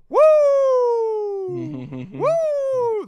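high, loud whooping; hammed-up celebratory woo; mock cheering. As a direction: whoop it up like a giddy fan. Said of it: "Hall's just looking around going".

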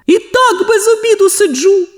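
very high grumbling complaint; gruff. A narrator's reading. The worker complains to Sonya, gruff. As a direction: grumble about missing lunch. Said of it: "грубо відповіла луна".

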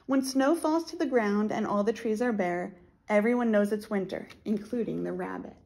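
storybook read-aloud; reading to children. Acted. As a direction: read it like a picture book. Reads the picture book aloud.

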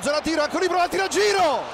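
excited play-by-play. Real, not acted. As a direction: build to the strike. Insigne curling shot.

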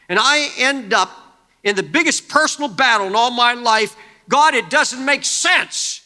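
a wronged prophet crying out his grievance; Elijah's complaint. Acted. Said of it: "here's what Elijah's thinking is".

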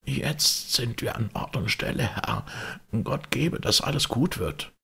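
high, hoarse and shaking servant; hoarse trembling voice. A narrator's reading. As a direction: rasp it out, trembling with fear. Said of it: "seine Stimme heiser und zitternd".

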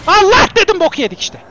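loud, high burst at the start; alarmed outcry. Real, not acted. Gamer caught by danger in the game, alarmed outcry. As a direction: shout out as disaster hits.

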